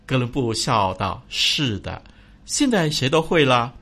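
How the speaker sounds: storyteller reading; story narration. A narrator's reading. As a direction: tell the fable gently.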